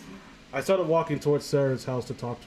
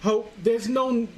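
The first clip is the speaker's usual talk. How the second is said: Jeff line, wrong take; 7 semitones higher, slower than usual. Shown as a demonstration. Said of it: "that's the wrong there".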